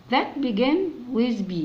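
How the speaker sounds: reading the English instruction slowly. Shown as a demonstration. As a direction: read it out word by word. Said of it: "يعني ايه that begin with B".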